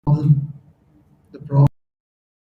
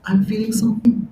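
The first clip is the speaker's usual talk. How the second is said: hushed, unvoiced admission; a whispered hint of pain; whispered confession; 4 semitones higher, 4 dB quieter than usual. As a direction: breathe it like a secret. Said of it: "He says".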